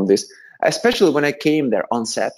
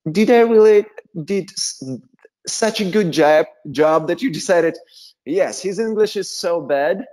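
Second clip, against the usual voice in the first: higher-pitched, incredulous retelling; mock disbelief; 5 semitones higher than usual. Actor questions producers who hired him a coach, mock disbelief. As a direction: question it haltingly, pitch raised in amazement.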